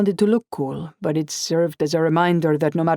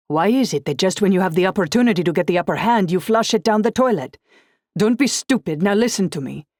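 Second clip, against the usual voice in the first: louder, faster angry rant; angry scolding; 4 semitones higher, 5 dB louder than usual. Acted. Boyfriend scolding her for leaving, loud and fast. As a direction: tear into her for being stupid.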